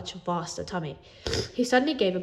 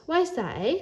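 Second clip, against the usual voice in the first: put-on friendly teen voice; 9 semitones higher than usual. A narrator's reading. Jake the helper voiced.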